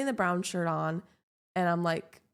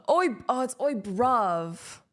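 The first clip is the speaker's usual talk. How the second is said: mock British; slower than usual. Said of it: "how British people be like".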